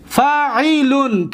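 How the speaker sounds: فاعلون said slowly, vowels held; drawn-out demonstration. Shown as a demonstration. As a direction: stretch فاعلون out for learners. Teacher models pattern by syllables.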